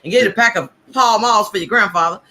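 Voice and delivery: lightly voiced bossy grandma; a hint of a stern grandmother; old lady voice. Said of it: "I don't like your old lady voice".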